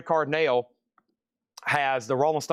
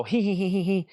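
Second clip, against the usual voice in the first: high sneaky cackle; gremlin giggle; 4 semitones higher than usual. Pretend. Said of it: "And they'll go".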